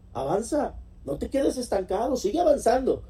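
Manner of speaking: mucho más agudo, urgiendo con fuerza; exhortación exaltada. Acted. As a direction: empuja al oyente a seguir. Repite la exhortación de Dios. (el predicador urge a avanzar: agudo y exaltado)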